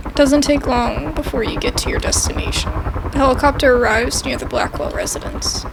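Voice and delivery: even, measured game narration; story narration. Acted. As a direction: read the scene aloud to viewers. Reads game narration aloud.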